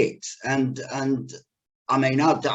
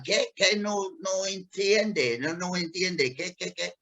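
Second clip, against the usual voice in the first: put-on little Spanish girl; 4 dB quieter than usual. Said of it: "this little girl was going".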